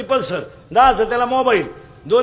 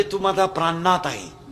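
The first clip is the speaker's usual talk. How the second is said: slow, lowered, lightly acted endearment; mock devoted sweetheart; 4 semitones lower than usual. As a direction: draw it out like a doting fiancée. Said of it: "लग्नाच्या अगोदर त्या पोराला म्हणत असते".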